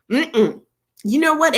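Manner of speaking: ordinary talk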